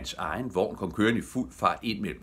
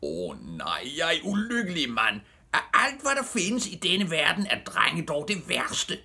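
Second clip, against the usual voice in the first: high, loud wail of despair; anguished outcry, slowing at the end; screaming; 12 semitones higher, 4 dB louder than usual. A narrator's reading. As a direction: bewail your misfortune at high pitch. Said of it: "pludselig skreg han".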